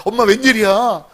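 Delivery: lightly acted delighted son; excited. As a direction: imitate an excited kid thanking mom. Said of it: "철없는 아들은 그저 신나서".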